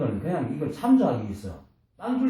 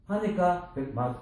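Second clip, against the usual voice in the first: normal talking voice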